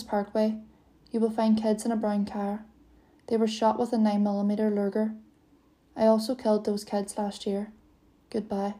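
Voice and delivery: flat, low, unemotional caller reading out the report; a cold, lightly voiced monotone with no rise or fall. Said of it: "the caller spoke in a low, monotonous voice".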